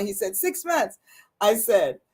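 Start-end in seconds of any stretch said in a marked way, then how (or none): 0.4-1.0 high-pitched mock pronouncement; retold professor's verdict. Professor penalising a student's wordy topic, mock-stern high pitch. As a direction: hand down the sentence in a raised pitch.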